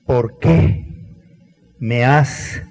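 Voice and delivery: a mild cry of despair, rising on qué; anguished cry. Retold or imitated. Jesus crying out to the Father: understated anguished cry. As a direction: call out in forsaken anguish. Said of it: "¿Cuál fue su grito?".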